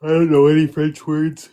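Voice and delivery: loud exclamation. Real, not acted. Exclaims loudly during Canada banter.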